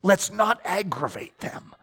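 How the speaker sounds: hushing Elijah so the priests won't hear, whispered; hushed warning. Retold or imitated. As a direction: hush him nervously before they hear. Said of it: "what I wanna say to Elijah in my natural man".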